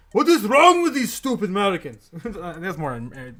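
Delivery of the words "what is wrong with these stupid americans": louder mock foreign voice, exasperated; mock Japanese trader. Streamer voicing Japan reacting to Americans, mock exasperated foreign accent. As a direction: play a baffled foreign trader scolding Americans. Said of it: "Japan's gonna wake up and be like".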